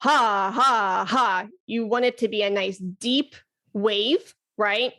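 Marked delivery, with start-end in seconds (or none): 0.0-1.5 hammered haws. Shown as a demonstration. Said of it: "You're hammering out those haws".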